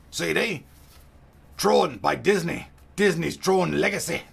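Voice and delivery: hammed-up pirate accent all the way. Unboxing the Tron mouse for viewers in a pirate accent. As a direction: growl the unboxing like an old pirate sea dog. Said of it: "why am I doing a pirate accent".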